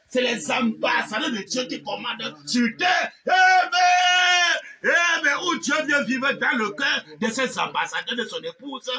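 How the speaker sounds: usual speaking voice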